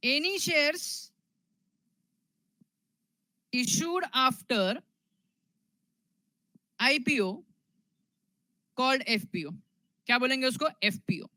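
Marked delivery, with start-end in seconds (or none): 0.1-9.5 very slow, broken into small chunks; slow dictation. Real, not acted. Teacher dictating the next definition to students, slow dictation. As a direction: dictate it piece by piece with long waits.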